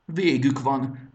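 slow, high, loud groan of doom; groaned despair. A narrator's reading. Larkin seeing the alliance fail, groaning. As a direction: moan that all is lost. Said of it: "nyögte Larkin".

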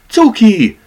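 high, loud call of a name; glad cry. A narrator's reading. White cat calling out to the tomcat who came for her. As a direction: call out across the dark cellar. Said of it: "hangzott fel Blanche kiáltása".

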